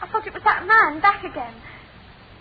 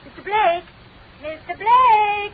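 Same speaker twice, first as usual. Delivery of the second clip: long drawn-out call into the fog; 3 semitones higher, 5 dB louder, slower than usual. Acted. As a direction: call his name across the fog. Calling out in the fog.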